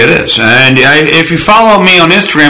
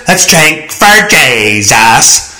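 very slow, drawn-out mock preacher toast; lightly hammed-up holy-roller toast; 2 semitones lower, much slower than usual. Shown as a demonstration. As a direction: stretch it like a tent revival.

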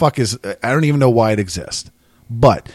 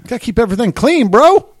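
bro voice; 12 semitones higher, 7 dB louder than usual. Pretend. Jokey bro line.

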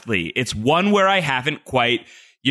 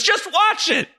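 mock curt reply. Creator's curt reply, imitated.

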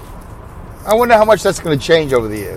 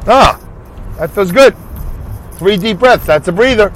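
usual speaking voice

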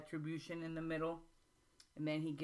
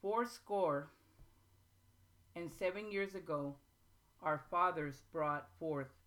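measured, solemn recital with long pauses; formal speech reading. Acted. Student reciting Lincoln's Gettysburg Address to the class, formal and measured. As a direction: read it like a speech from a podium.

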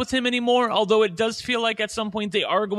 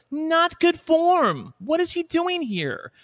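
indignant; 11 semitones higher, slower than usual. Real, not acted. Indignant about character.

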